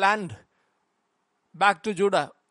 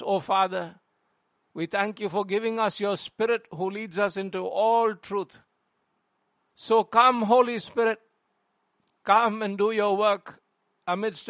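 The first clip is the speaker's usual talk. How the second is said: prayer. Acted. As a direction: pray it reverently to the congregation. Pastor leads congregation in prayer.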